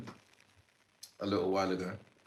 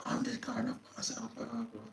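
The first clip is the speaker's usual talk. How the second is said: high mocking voice for the creep; mock high-pitched imitation of the guy's excuse; mocking whiny guy; 14 semitones higher, 8 dB quieter than usual. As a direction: squeak it out like a pathetic excuse.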